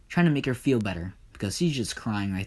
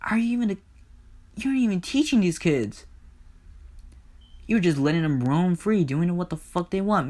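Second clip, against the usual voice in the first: higher-pitched, worked-up tirade; acted rant, pitched up and insistent; indignant Hades; 7 semitones higher than usual. Hades tells Zeus off for bad fathering, indignant.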